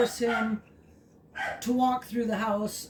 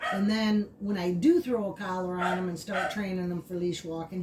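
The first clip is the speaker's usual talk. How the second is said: ordinary talk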